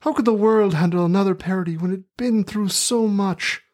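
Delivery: put-on terrible working-class Midlands accent; rustic Midlands accent. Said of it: "in my terrible working-class rustic Midlands accent".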